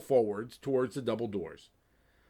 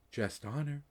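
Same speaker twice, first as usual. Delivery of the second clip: whispered; 3 semitones higher, 6 dB quieter than usual. Acted. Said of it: "it whispered".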